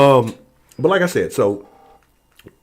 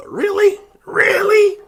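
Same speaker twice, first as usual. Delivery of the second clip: shrill-high double take, much louder; incredulous really; 14 dB louder, much slower than usual. Real, not acted. Reacting to chat, disbelieving really twice. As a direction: squeak it out in disbelief.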